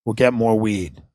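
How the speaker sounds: usual speaking voice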